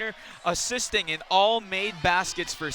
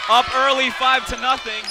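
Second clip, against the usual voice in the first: louder, lifted score announcement; excited score call; 4 semitones higher, 7 dB louder than usual. Real, not acted. Commentator gives Saint Mary's early lead, excitedly. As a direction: punch the score after a basket.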